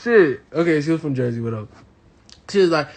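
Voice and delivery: normal talking voice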